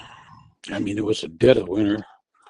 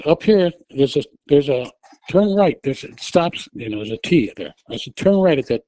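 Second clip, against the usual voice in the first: urgent directions; 3 semitones higher than usual. Retold or imitated. Directing dazed driver.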